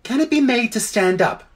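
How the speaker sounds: thoughtful elephant. A narrator's reading. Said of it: "said the elephant thoughtfully".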